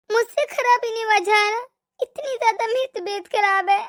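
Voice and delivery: ailing, weepy plea; sick and close to crying; tearful pleading. Acted. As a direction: beg for a doctor through mild tears. Sick daughter-in-law pleading with mother-in-law.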